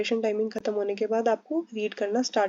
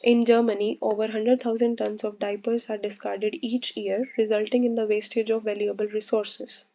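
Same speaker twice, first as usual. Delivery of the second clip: slow, even reading with natural pauses at commas; calm fluent read-aloud; much slower than usual. Shown as a demonstration. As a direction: read it unhurried, in one smooth flow. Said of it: "मैंने बहुत आराम से flow से पढ़ा है". (धीमी, सहज लय में पढ़ना)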